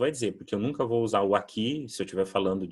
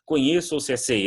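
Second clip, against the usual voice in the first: raised, puzzled learner's question; confused learner; 6 semitones higher, 5 dB louder than usual. Retold or imitated. Pastor Simon, learning Portuguese, asks his translator, puzzled. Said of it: "dificuldade que eu tinha pra traduzir isso pro pastor Simon".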